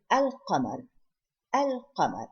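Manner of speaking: "al-qamar" with the l of al clearly sounded; lam pronounced. Shown as a demonstration. Teacher showing the Arabic for moon, "al-qamar" with an audible l. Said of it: "So I pronounce the lam".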